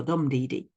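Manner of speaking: stressed "dum", two light "dee dee". Shown as a demonstration. Teacher showing another metre, "dum dee dee" stressed first. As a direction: hit "dum", then two unstressed "dee" beats. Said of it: "other, uh, ways of describing things".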